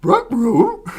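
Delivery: high cartoon talking dog; Scooby-Doo voice. Amused player trying an easy one, Scooby-Doo voice. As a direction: yelp it like a goofy cartoon dog. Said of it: "Scooby-Doo is an easy one".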